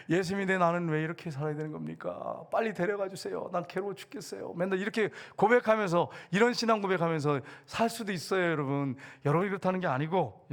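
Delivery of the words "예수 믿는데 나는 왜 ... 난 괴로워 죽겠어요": mock plaintive complaint, fading softer; weary lament. Nominal believer pleading with God after being knocked about, mock weary lament. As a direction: imitate a worn-out believer sighing out a plea.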